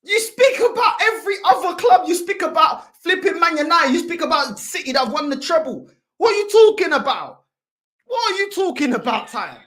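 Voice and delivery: loud, indignant football rant; heated rant. Real, not acted. Fan berating a rival over other clubs, heated. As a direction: fire the accusations out loudly.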